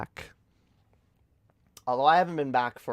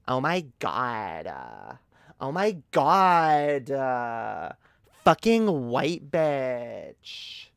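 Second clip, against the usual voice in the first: drawn-out mock rant; 4 dB louder, much slower than usual. Hammed-up exaggerated drawn-out voice.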